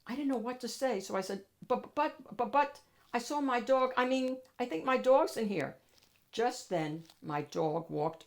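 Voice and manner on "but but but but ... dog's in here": flustered stammer. Acted. Kid caught by bulldog bouncers.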